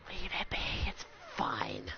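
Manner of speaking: low, fading whisper; very soft, low resignation; hushed plea. Real, not acted. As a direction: let it fade to a whisper. Telling viewers to stop gifting.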